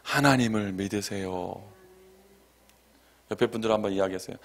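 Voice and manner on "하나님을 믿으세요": gentle exhortation. Real, not acted.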